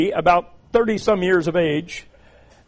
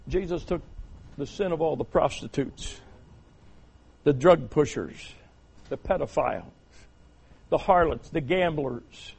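soft, lowered voice, spaced-out list; hushed preaching; 5 semitones lower, 8 dB quieter than usual. Real, not acted. Preacher listing whose sin Jesus took, hushed and solemn. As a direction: list them quietly, pausing after each.

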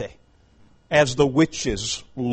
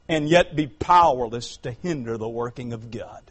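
ordinary delivery

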